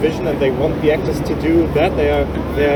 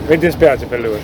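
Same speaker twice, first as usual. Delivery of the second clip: laughing; 4 semitones lower than usual. Real, not acted. Joking aside in Italian.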